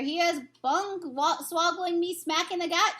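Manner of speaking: high angry shout; lightly voiced giant shouting. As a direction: shout in outrage. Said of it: "shouted the gizzard gobbler".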